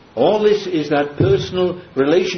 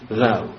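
THOU as a single falling beat; low, firm stress on THOU; emphatic THOU; 5 semitones lower than usual. Shown as a demonstration. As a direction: set "thou" apart with finality. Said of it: "very emphatically".

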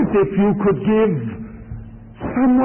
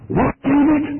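sharp, higher surprised question from the father; 6 semitones higher, faster than usual. Acted. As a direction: react as a stunned father hearing his son's news. Father surprised at son's story.

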